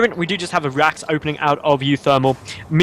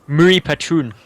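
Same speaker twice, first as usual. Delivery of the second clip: put-on Scottish accent; slower than usual. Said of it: "I just did a Scottish accent there".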